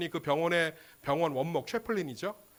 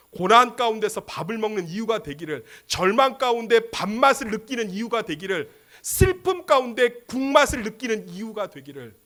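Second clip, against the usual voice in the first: raised, rhythmic preaching cadence; earnest pulpit litany; fervent blessing; 6 semitones higher, 7 dB louder than usual. Acted. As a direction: build each parallel wish with more force. Preacher's repeated blessing, built up.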